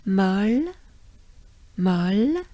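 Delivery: molle said the French way. Shown as a demonstration. Teacher modeling molle for learners. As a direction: molle with a short round o. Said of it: "So remember".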